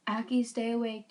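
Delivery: John yelling. Acted. John yelling at the wounded Aki, urgent. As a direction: keep her awake. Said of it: "John yelled".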